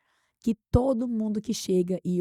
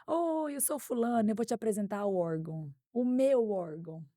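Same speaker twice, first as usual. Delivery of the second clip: mimicking the harasser; 2 semitones higher than usual. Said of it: "e fala assim".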